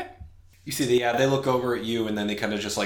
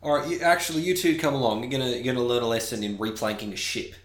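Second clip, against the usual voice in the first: Ennister; 4 semitones higher, faster than usual. Acted. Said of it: "See, Ennister goes".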